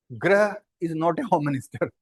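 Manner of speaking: ग्रह said very slowly, each word spaced out; slow and deliberate. Shown as a demonstration. Teacher correcting a common error for students, very slow and deliberate. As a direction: drag the line out to drive home that ग्रह is wrong. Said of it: "तो ये ग्रह हो गया".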